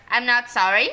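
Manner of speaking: loud defiant scream. A narrator's reading. Boy yelling defiance at his mother. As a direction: yell it back defiantly. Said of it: "screamed Henry".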